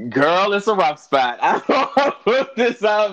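hushed giggling aside; laughing whisper. Real, not acted.

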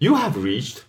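stiff robotic greeting. Shown as a demonstration. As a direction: read it like an answering machine. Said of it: "more robotic than the robot".

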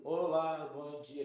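a hint of a stiff, robotic waiter; mock stiff, starched greeting; stiff formal greeting.

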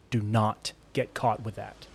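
slow, quiet, deliberate "Do not get caught with that"; weight each word of "Do not get caught"; hushed, measured warning on "Do not get caught"; firm instruction. A narrator's reading. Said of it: "he instructed her".

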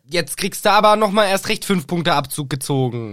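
hammed-up indignation; indignant scolding. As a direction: scold like an appalled teacher. Teacher scolding the pupil.

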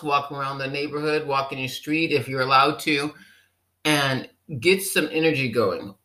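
ordinary talk, nothing marked

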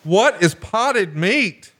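lightly voiced Megan frowning at the meme; mock disgusted wife. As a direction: imitate his wife's puzzled disgust, drawn out. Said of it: "Megan makes a scowl".

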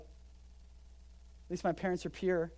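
slow, soft, smug little voice; prissy put-down, drawn out; a quiet, prim mock of the accusers. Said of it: "What they're saying to Jesus is like".

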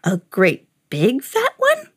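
slow, put-on varmint voice; sly varmint. A narrator's reading. Varmint teases the old man, slow critter voice. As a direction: draw it out like a teasing critter. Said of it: "asked the varmint".

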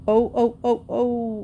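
whining horse. Acted. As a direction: whine it like a horse. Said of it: "whined Trotsky".

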